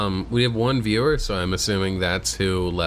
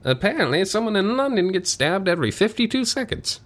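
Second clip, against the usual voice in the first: mock British accent; 8 semitones higher than usual. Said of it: "a different voice for each of these".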